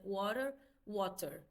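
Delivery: "water" first flapped, then with a crisp t, slowly; slow teacher demo of "water" both ways; American then British water. Shown as a demonstration. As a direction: contrast the two "water" sounds, slow and careful. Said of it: "Já o inglês britânico, ele é mais pausado".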